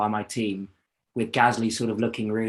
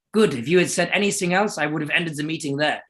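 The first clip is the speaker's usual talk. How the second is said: higher, clipped-sounding mock Austrian boss; mock Austrian accent; 5 semitones higher than usual. Team boss warning young driver, mock Austrian accent. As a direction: keep the clumsy Austrian accent going. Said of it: "he goes".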